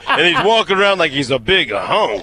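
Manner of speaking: giggling through the quote; laughing mock quote. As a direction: laugh while quoting him. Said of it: "I wasn't expecting for it to end with".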